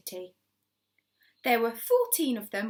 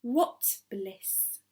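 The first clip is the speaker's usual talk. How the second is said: breathy delight. Acted. Hoppy quivering with excitement.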